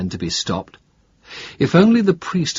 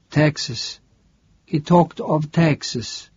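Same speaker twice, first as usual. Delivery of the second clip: higher, wary voice of the sick priest; a frail priest, suddenly alert; startled priest asking a stranger; confused old priest; 6 semitones higher, slower than usual. Acted. Priest drifts off.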